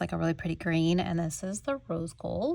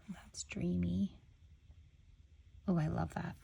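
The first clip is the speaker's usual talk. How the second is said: admiring whisper; 9 dB quieter than usual. Real, not acted. Admiring aqua with rose gold, whispered.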